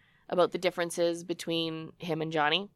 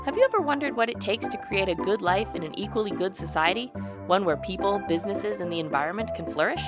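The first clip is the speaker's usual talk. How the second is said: ad read. Acted. Reads sponsor ad.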